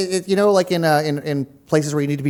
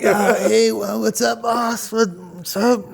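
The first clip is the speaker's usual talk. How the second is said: eager assistant voice; 4 semitones higher, slower than usual. Acted. Playing the cameraman Gregory.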